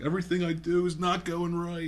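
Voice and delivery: high, held-up tearful whine; lightly acted sobbing complaint; mock crying. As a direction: imitate a man whining through tears. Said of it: "I was saying he's crying".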